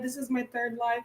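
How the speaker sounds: softly fading this is my third live, a bored imitation of herself; mock self-quote. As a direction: drop to a soft, tired mock of her own routine. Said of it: "I stop saying".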